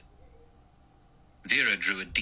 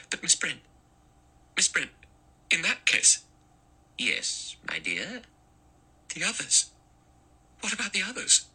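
high, urgent alarmed voice; alarmed young woman; 11 semitones higher than usual. A narrator's reading. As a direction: Vera suddenly realising the danger.

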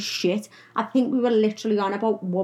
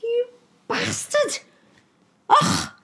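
mock insult; much slower than usual. Quoted insult.

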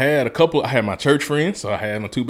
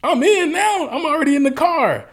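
very high, louder, teasing whine; high-pitched mock whine at the friend who wants the front seat back; squeaky high mock protest; 5 dB louder than usual. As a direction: squeal it like a stubborn teen refusing to move. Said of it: "I'm like".

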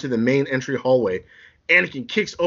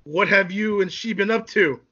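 suspicious demand; 6 semitones higher than usual. Acted. Anakin confronts Obi-Wan.

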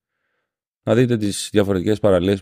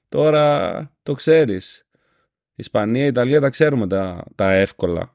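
teasing; 3 semitones higher than usual. Retold or imitated. Teasing the clerk.

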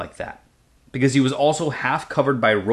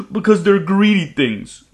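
higher, louder disdainful voice; scornful dragon; 8 semitones higher, 6 dB louder than usual. Acted. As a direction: spit out the scorn. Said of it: "dragon scorns the monkeys".

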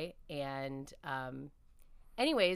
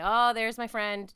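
cheery greeting; 5 semitones higher, 10 dB louder, slower than usual. Retold or imitated. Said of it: "And I'd always say".

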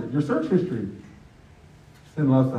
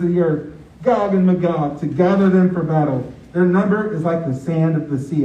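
raised, earnest Bible reading; scripture reading. Acted. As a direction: read the passage like a preacher to his team. Reads Revelation aloud, raised.

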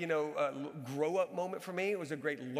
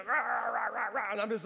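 gruff "rah" barking noise, a little louder; mock yelling; 3 semitones higher, 3 dB louder than usual. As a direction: imitate your own sideline yelling as wordless barks. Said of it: "So I yell and I scream".

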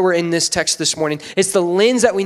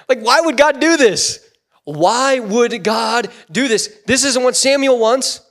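raised, insistent disbelief; baffled protest; 4 semitones higher, 3 dB louder than usual. Acted. Preacher questions God's choice on Samuel's behalf, baffled. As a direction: protest it in bewilderment, voice lifted.

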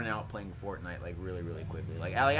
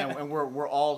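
laughing; 3 semitones higher than usual. Real, not acted. Joking through laughter.

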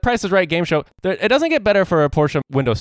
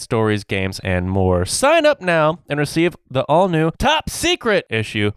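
ad read. Acted. Reads sponsor ad.

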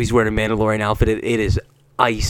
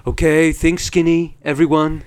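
Trump impression; 4 semitones higher than usual. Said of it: "Donald Trump comes in and goes".

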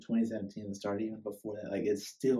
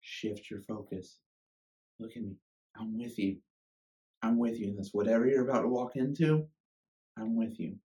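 gentle voice of God. Retold or imitated. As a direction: speak like a gentle whisper of comfort. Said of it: "I hear God say".

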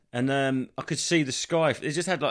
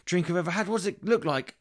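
much higher, gushing mock delight; delighted taster; 7 semitones higher than usual. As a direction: gush over the taste, hammed-up. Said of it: "And they go".

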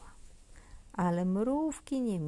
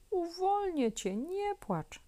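put-on much higher, small girl voice soothing a bee; a tiny girl promising help; little girl comforting; 11 semitones higher than usual. A narrator's reading. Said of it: "obiecała Zosia". (wysoki głosik dziewczynki, pocieszająco)

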